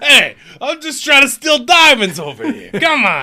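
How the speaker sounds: pitched very high, loud comedic voice. Describing a movie scene, joking in a Danny DeVito voice. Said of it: "Frank Reynolds, Danny DeVito".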